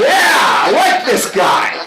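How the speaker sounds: big, high, drawn-out cheer of approval; delighted shout. Retold or imitated. Speaker cheering on a joking waiter, delighted shout. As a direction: shout it out, thrilled by this character.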